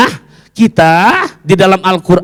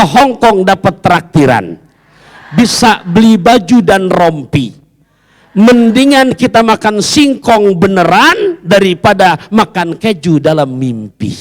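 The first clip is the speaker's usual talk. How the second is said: pantun recital; 3 semitones higher, 3 dB louder than usual. Shown as a demonstration. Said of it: "Bikin pantun yang bener susah".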